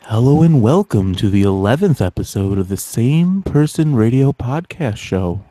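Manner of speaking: slow announcer-style welcome; podcast host intro. Acted. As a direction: announce the show slowly.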